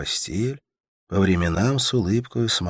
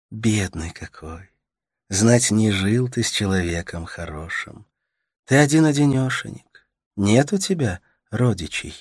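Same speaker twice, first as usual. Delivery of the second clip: put-on higher, tender young woman soothing a sick man; Katerina's voice; 5 semitones higher, 4 dB louder than usual. A narrator's reading. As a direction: coax him gently, voice lifted high. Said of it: "Katerina pities him".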